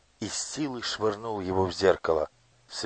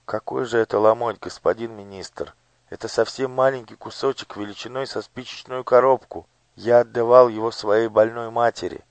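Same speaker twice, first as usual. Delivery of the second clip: put-on higher, pleading boy's voice; fervent boy; 4 semitones higher, 7 dB louder than usual. A narrator's reading. Gurt pleads with the minister about bread. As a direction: plead earnestly for your mother. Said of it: "тихо, но горячо говорил Гурт".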